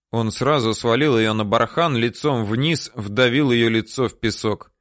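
usual speaking voice

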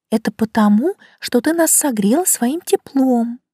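lightly voiced small plant; violet voice. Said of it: "невнятно объяснила Лина".

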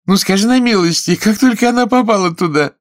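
high, loud mock astonishment; exclaiming in surprise. A narrator's reading. Fanny caught with the spoon, mock-amazed exclaiming. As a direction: feign amazement at the spoon, loudly. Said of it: "воскликнула она".

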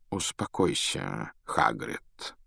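soft, low, slow; calming. A narrator's reading. Dumbledore calming Hagrid, quiet low. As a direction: settle him gently. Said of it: "остановил его Дамблдор".

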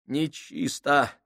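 slow, hushed creeping horror; eerie voice. A narrator's reading. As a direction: draw the word out eerily. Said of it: "произнёс Крайчик жутким голосом".

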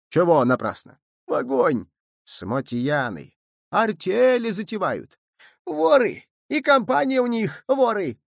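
put-on a drunken mob yelling thieves; rowdy drunken shouts. A narrator's reading. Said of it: "буйно, как пьяные". (буйно, как пьяные, всё выше)

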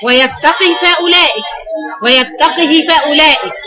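ويتقه with the final ha vowel drawn out; silah recitation. Shown as a demonstration. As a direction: recite ويتقه فأولئك, lengthening the hi for two counts. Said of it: "الصلة اللي هو حركتين".

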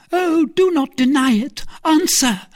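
high, loud, urgent; loud, high-pitched command; insistent demand. A narrator's reading. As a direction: press hard for an answer. Milady demands a confession.

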